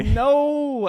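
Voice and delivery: high, loud mock protest; playful loud no. Real, not acted. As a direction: shout it down laughing.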